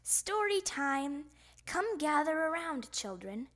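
announcement. A narrator's reading. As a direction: announce it to a group of children. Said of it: "Miss Otterbottom announced".

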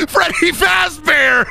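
loud, high, drawn-out character shout; Freddy Fazbear. Acted. Repeating the favorite Muppet gag, in a mascot shout. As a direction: holler it like a goofy mascot. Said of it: "who my favorite Muppet is".

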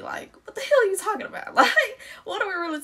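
breaking into laughter mid-rant; laughing through it. Retold or imitated. Telling her date off while laughing. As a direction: laugh while you scold him.

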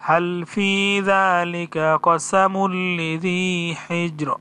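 slow, drawn-out recitation of the verse; Quran recitation. Shown as a demonstration. Teacher reciting the whole verse after spelling it out. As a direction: chant it slowly as in prayer.

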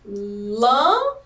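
"Lâmpada." said slowly, one clap per syllable; clapping out syllables. Shown as a demonstration. Teacher claps syllables for children, slow and even. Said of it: "Assim, ó".

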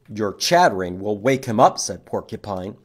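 lightly voiced porcupine. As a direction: object as the practical porcupine. Porcupine speaks in picture book.

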